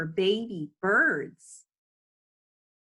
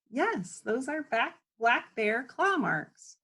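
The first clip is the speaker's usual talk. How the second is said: smiling reply; 5 semitones higher, slower than usual. Acted. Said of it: "Cindy smiles".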